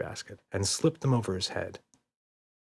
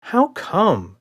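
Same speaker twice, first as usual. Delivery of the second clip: giggling; 10 semitones higher, 6 dB louder than usual. A narrator's reading. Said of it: "with a giggle".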